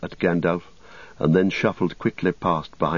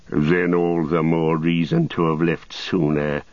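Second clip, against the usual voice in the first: lightly voiced slow, bitter wizard; a touch of measured disdain; Saruman. Story figure Saruman speaks.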